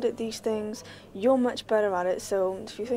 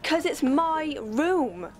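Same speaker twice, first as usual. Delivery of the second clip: louder, higher and slow, insisting; heated retort; 5 semitones higher, 4 dB louder, much slower than usual. Acted. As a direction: lean hard on every word. Child snaps back in quarrel.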